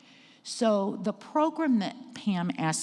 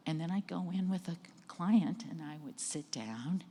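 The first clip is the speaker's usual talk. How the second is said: stress going away; 7 dB quieter than usual. Shown as a demonstration. Director sitting down with a client, stress going away. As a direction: settle down, dropping much softer. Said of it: "the stress goes away".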